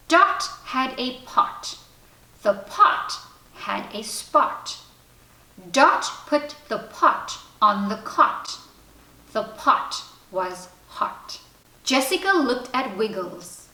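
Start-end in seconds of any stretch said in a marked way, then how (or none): 0.1-8.6 reading aloud. Acted. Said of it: "Jessica opened the book and began to read". 9.3-11.4 slow, breathy careful reading; reading a primer. Acted. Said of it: "began to read".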